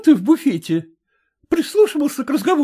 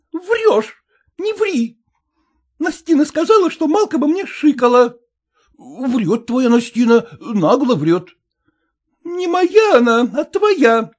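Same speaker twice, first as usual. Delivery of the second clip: high, loud, breaking into despair; wife accusing her husband of lying; jealous fury; 12 semitones higher, 4 dB louder than usual. A narrator's reading. Wife's jealous quarrel continues. (ревнивый надрыв)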